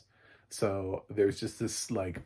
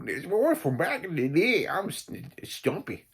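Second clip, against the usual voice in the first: goofy, much higher character voice; imitating Stumpy's voice; 9 semitones higher, 6 dB louder than usual. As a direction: imitate the oddball sidekick's put-on voice. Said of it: "that was a voice".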